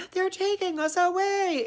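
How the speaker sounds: very high, wailing donkey voice. Retold or imitated. Donkeys dragged off to the Emperor, in high wailing voices. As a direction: squeal it like a donkey being dragged off. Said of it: "all the other donkeys like".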